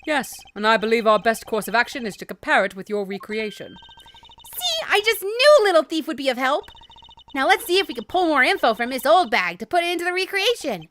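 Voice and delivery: put-on high, excited girl's voice; chirpy sidekick cheering on her partner; Kay voice. Kay praising Little Thief to Edgeworth, high and chirpy.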